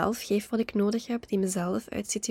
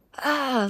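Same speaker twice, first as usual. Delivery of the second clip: frustrated groan; 4 semitones higher than usual. Shown as a demonstration. Venting anger alone in the car, a quick pitched-up groan. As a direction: vent it with one sharp ah. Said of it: "ja, zo".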